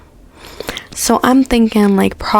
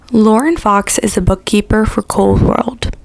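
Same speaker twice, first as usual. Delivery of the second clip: talking around a retainer and whitening strips; wearing a retainer. Real, not acted. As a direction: speak with a retainer in your mouth. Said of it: "I have my retainer in and my teeth whitening strips, so that's why I sound like this".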